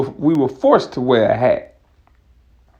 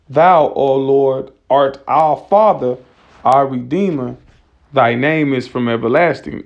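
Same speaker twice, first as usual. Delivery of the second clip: scripture reading. Acted. Preacher reads scripture aloud.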